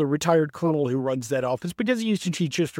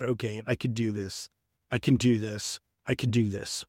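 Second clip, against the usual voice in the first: quiet self-talk; 6 semitones lower, 6 dB quieter than usual. Retold or imitated. Calming himself, inner pep talk.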